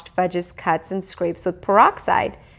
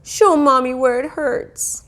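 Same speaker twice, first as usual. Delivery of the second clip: tender mother; 7 semitones higher, slower than usual. A narrator's reading. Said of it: "She kissed him all over".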